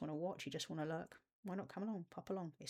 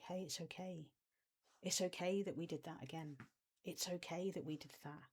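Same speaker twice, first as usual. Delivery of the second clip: gentle, softer reassuring parent voice; soft and tender; 3 dB quieter than usual. Shown as a demonstration. Coach showing viewers the loving parent voice, soft and tender. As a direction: soothe yourself like a loving parent. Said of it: "You see how soft and tender I am?".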